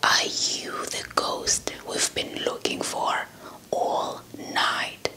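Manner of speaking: plain reading voice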